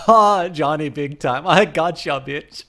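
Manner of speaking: put-on lightly done German accent, gleeful opening. Streamer saying a chatter's line, light German accent. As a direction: tease them in a mild German accent. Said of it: "say it in a German accent".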